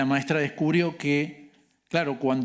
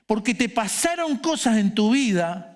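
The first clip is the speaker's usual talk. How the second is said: raised, emphatic preacher's exhortation; earnest preaching; 5 semitones higher than usual. Real, not acted. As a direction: preach it straight at the congregation, pressing each phrase.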